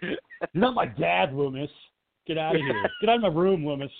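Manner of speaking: lightly voiced sulky child; mock tantrum at a stepdad figure; rebellious kid. The speaker acted as rebellious child.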